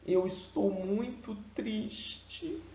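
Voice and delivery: soft, slow, sorrowful; sad voice. Shown as a demonstration. Teacher showing a sad voice matching sad words. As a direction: let the sadness weigh it down. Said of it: "A voz precisa condizer com as palavras".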